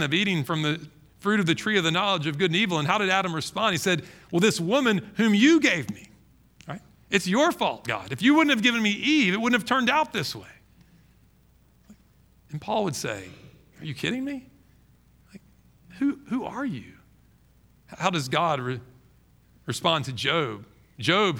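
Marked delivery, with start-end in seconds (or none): 4.3-10.5 defensive excuse. Retold or imitated. Adam blaming God. 13.8-16.9 incredulous disbelief. Retold or imitated. Paul voiced, incredulous.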